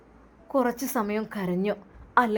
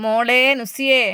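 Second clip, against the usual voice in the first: calling out; 6 dB louder, slower than usual. Acted. Mother calling daughter to eat.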